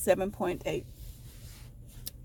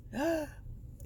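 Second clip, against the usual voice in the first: retold gasp; 9 semitones higher, 8 dB quieter than usual. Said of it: "And she goes".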